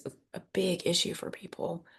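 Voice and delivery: soft breathy whisper. Real, not acted. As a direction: let it fall into a whisper. Earnest point dropped to whisper.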